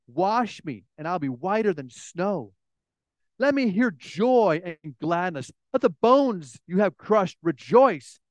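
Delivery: earnest, measured reading of a psalm; a preacher reading David's prayer with feeling; scripture reading. Acted. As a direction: read the psalm as a heartfelt plea. Reads psalm aloud.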